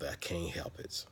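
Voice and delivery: a hint of a beaten-down prophet; mock despair. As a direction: whisper it as a worn-out complaint. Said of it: "serious case of".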